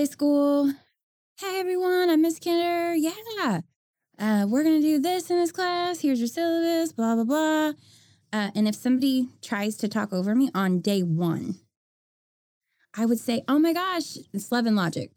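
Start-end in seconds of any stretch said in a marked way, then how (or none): 1.4-7.7 high, bright first-day teacher; cheerful teacher voice. Retold or imitated. 13.5-14.2 high, sweetly surprised teacher. Retold or imitated. Teacher reacting to talker.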